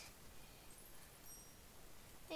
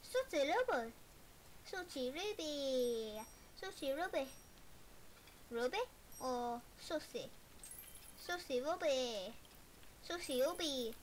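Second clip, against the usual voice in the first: calling out. Pretend. Calling out customer order.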